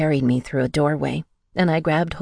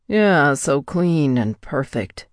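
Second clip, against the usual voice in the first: musing menace; slower than usual. A narrator's reading. Captor mocking the bound woman, slow sneering muse. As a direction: savour each word, slow and cold. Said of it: "he mused".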